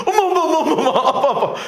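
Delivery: high, loud mock cry for mom; teasing imitation of panic. Mother mimicking her jailed child running out to mom, hammed-up panic. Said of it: "엄마가 놀리는 게 뭔지 아세요".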